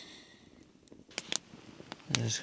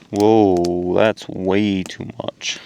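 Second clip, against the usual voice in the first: surprised; 12 dB louder, much slower than usual. Real, not acted. Too much cocoa poured in.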